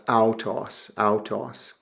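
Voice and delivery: "autos" as OW-toss, no H sound; pronunciation demo. Shown as a demonstration. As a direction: model "autos" slowly, diphthong first. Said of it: "the breathing mark goes over the second part".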